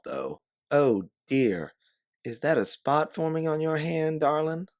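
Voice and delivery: a Southern lady fending off a policeman; Southern accent. Pretend. Posing as a nursemaid, sweet mock Southern accent. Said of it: "throwing on your best Southern accent".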